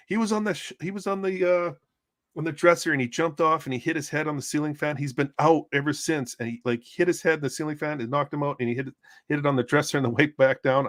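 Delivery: high, hurried retelling in her voice; flustered woman. Retold or imitated. Woman explaining the fall to medics, high flustered voice. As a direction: rattle it off high like she's still rattled.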